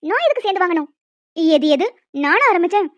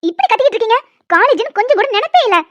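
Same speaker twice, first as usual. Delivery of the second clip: scolding teacher; 4 dB louder than usual. Acted. Teacher scolds noisy students.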